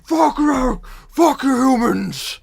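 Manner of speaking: high, loud furious orc roar. Acted. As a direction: roar it at the humans. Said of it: "you just hear a roar".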